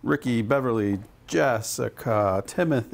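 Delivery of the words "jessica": "Jessica" said slowly, each syllable hesitant as if unsure; unsure pronunciation. Real, not acted. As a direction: sound out "Jessica" slowly like an unfamiliar name. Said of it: "I said that like I didn't know how to pronounce it".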